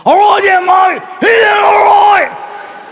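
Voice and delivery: put-on like a drunk pirate underwater; slurred bellowing Aussie pirate; raspy drunk pirate. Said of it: "He had more of a raspy voice".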